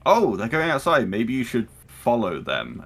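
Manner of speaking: high, loud feigned helpfulness; casual suggestion in character. Acted. Player sneaks a command into conversation, feigned helpfulness. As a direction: slip it in as if helpfully noticing. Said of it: "sneak into a conversation".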